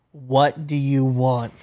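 drawn out, very slow grumpy greeting; annoyed friend. Retold or imitated. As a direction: play the grumpy friend picking up, very slowly. Imitating annoyed friend answering the phone.

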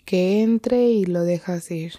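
measured meditation guide with long pauses; guided meditation. Real, not acted. Guide leading listeners to breathe and come to the present, unhurried meditation voice. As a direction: lead them gently into the breath, leaving long silences.

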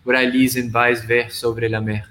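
measured poetry reading with unhurried pauses; poem recitation. Acted. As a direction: read it like a poem to a small audience. Recites his multilingual poem.

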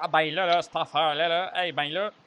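hammed-up Québécois accent, lots of "là"; a light send-up of a Québécois accent; mock Québécois accent. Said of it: "Quand j'imite l'accent québécois".

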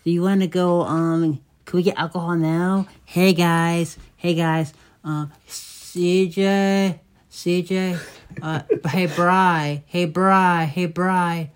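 lightly voiced eager drunk buddy; mild impression of an eager drunk friend; imitating Cave. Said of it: "this is his famous line".

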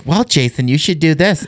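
lightly voiced mom impression. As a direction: put on a mock motherly advising voice. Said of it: "my mom voice is like".

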